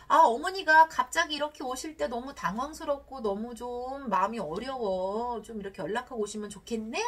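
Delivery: respectful request. Shown as a demonstration. Spouse asking for notice before mother-in-law visits, respectful request. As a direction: voice discomfort tactfully, easing off toward the end. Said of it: "좀 존중하는 듯한".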